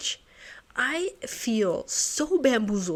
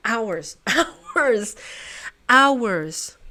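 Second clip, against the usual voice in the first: louder, drawn-out complaint; exasperated hours; 6 dB louder, much slower than usual. Real, not acted. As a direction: groan out the hours. Exasperated at time spent.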